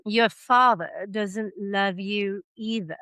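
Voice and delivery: put-on slow, drawn-out royal baby voice; slow imperious baby drawl; rich deep voice. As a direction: lean into every word, slow. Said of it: "his voice rich and deep".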